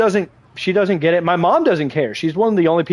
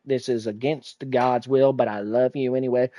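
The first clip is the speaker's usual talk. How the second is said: lightly voiced disapproving grandma, lowered and measured; judgmental grandma; 3 semitones lower, 5 dB quieter than usual. Grandma judging her gay grandson, lightly imitated solemn disapproval. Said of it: "my grandma's kinda judgmental".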